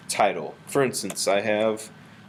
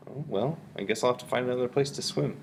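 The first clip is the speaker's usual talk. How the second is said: musing to oneself, starting softly; thinking voice; 4 dB quieter, faster than usual. Shown as a demonstration. Teacher answering the poem's questions aloud, thinking voice. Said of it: "use my thinking voice to generate questions".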